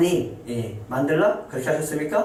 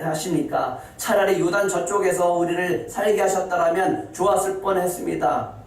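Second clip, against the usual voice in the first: raised, pleading complaint to God; complaining Joshua; 6 semitones higher than usual. Acted. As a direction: voice Joshua's lament to God, pitched high. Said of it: "라고 지금 여호수아는 원망하고 있어요".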